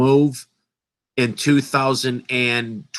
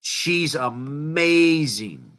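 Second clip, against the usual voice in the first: slow and hushed, drawn out; much slower than usual. Real, not acted. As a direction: let it fall away in admiration. Repeats praise softly.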